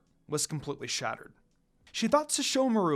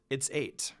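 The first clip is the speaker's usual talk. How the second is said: quiet whisper; 4 semitones lower, 6 dB quieter than usual. A narrator's reading. Quiet answer about shards.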